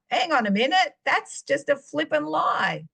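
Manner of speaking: a sudden indignant stand; indignant protest. Retold or imitated. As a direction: snap out of it and push back. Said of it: "you gotta counteract these things".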